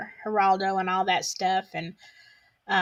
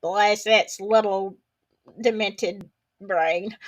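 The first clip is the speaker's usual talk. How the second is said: mock pity; slower than usual. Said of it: "I was like".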